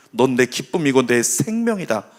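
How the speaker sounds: low-key tender declaration; quiet, lightly acted reassurance; Jesus. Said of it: "우리 예수님은 이렇게 말씀하시는 거예요".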